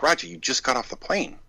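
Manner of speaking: telling a jet-lagged friend to relax; laughing plea. Retold or imitated. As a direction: coax a tired friend while laughing. Retold urging Roger to rest.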